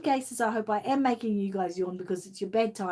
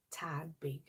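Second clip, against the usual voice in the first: whispered aside; 4 semitones lower, 11 dB quieter than usual. Real, not acted. Advising on doll clothes, whispering the end. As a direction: whisper the last words softly.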